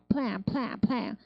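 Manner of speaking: 플랜 with lips pressed firmly for the PL. Shown as a demonstration. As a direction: pop 플랜 from tight lips as one syllable. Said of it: "입술에 힘 주세요". (입술에 힘주어 플랜)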